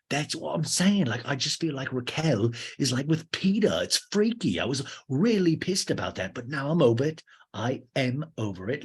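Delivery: high, hammed-up DJ protest. DJ insisting he is over his ex, mock agitated. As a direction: start high and worked up, settle by the end.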